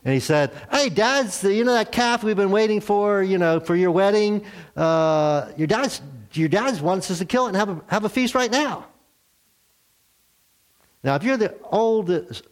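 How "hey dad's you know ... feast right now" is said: high, eager rush of news; a servant breathless with party news. Acted. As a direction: hurry the message out. Servant relays father's orders.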